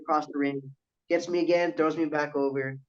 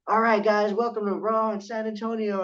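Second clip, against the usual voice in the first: ring announcer; 7 semitones higher than usual. Retold or imitated. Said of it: "the ring announcer's like".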